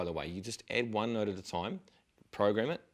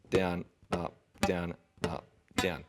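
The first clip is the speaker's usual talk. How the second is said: slow, separated down-up count; 2 semitones lower, slower than usual. Shown as a demonstration. Teacher showing how slowly to practise, slow count. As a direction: count each stroke out slowly and evenly. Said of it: "If you program this like this".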